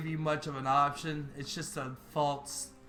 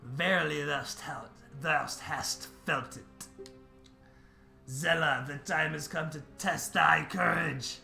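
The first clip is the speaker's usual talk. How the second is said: solemn tree voice; 4 dB louder than usual. Acted. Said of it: "why are you speaking in Old English".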